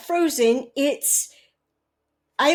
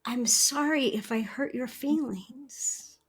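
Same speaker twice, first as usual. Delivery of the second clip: gentle apology; 6 dB quieter than usual. Retold or imitated. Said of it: "just by saying".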